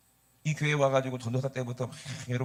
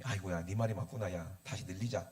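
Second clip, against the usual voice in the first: low, soft conceding voice; lightly voiced father pastor; 7 semitones lower, 6 dB quieter than usual. Father pastor conceding to his son, lightly imitated in low voice. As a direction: give in softly, pitched well down. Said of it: "목사님이".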